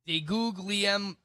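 put-on slow, rolling Italian accent. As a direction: lean into an Italian accent on the name. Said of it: "That was your Italian accent".

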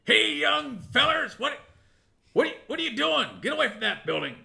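put-on old prospector. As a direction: call out like a crusty old lawman. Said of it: "this voice calls out to you".

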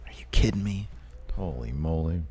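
whispered disbelief; hushed, thrilled whisper; excited whisper. Real, not acted.

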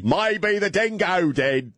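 put-on very high, slow Aussie accent; mock Australian accent. Host parrots the dingo line, in a high mock Australian accent. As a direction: squeal it slowly in exaggerated fake Australian.

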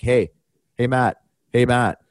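retold call to a passing player. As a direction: call a name casually to catch someone. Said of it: "I yell a little bit louder".

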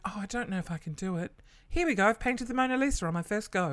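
a mock humble-brag, rising high into a falsely casual boast; a hint of a smug mum brushing off a masterpiece; mocking her mum. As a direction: lightly send up mum's fake modesty. Mocking mum's fake modesty.

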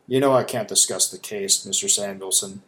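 lightly voiced stern disapproval; a hint of a reproving agent; disapproving tone. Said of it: "said Agent Gomez in a disapproving tone".

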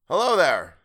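loud, high hail; calling out. A narrator's reading. Sailor hailing a vanished boat, calling out. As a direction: call out over the water. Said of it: "I called".

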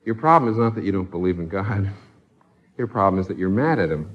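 low-pitched, unhurried calm reply. Retold or imitated. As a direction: answer calmly, keeping the voice low. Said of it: "the minister very calmly said".

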